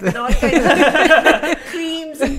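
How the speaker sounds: laughing through the words. Real, not acted. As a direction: chuckle while talking. Laughing at own joke.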